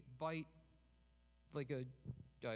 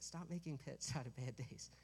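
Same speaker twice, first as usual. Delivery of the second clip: softer, said through a smile; smiling; 4 dB quieter than usual. Shown as a demonstration. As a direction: say it gently with a smile. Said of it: "I'll smile when I say it".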